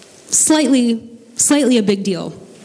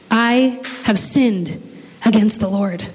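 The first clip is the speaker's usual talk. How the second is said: slow, sincere confession of sin; humble, slow admission; slower than usual. Acted. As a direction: let each word of the confession land slowly. David confesses, slowed.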